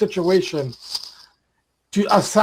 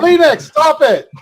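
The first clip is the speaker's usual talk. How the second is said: louder, slow firm order; stern command; 4 semitones higher, 6 dB louder than usual. Real, not acted. Host orders the angry guest to stop, stern and loud. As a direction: stop him cold.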